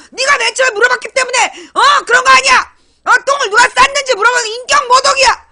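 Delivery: loud, high, fast outraged protest; hammed-up fury at being asked; indignant rant. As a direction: turn the blame on the asker. Guilty one ranting indignantly.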